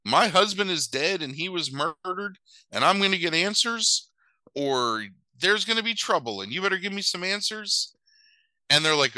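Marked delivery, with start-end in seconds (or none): 0.0-7.9 high, heated mock outburst; freaking out. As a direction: rant at the cop like a frantic widow. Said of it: "she freaks out".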